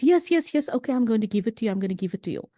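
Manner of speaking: a hint of a flustered father; hurried father. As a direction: rattle it off like a dad fobbing off a crowd. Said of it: "So now the father says".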